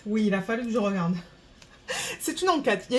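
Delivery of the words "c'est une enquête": rire gêné au début, puis dit le mot; lâcher un petit rire avant le mot trouvé; en riant. Real, not acted. Rit de sa propre recherche. (petit rire en trouvant enfin le mot)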